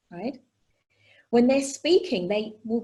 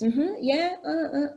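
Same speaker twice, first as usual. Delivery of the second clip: higher-pitched, responsive mm-hmm and yeah; eager listening sounds; 5 semitones higher, slower than usual. Retold or imitated. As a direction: imitate an over-eager listener. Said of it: "make a lot of listening sounds".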